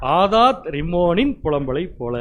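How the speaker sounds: ஆதாத் ரிம்மோனின் spelled out slowly, each syllable clear; slow the name right down so it is said correctly; a teacher's slow correction of ஆதாத் ரிம்மோனின்; slow and careful. Shown as a demonstration. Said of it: "பேர் கரெக்டா சொல்லணும்".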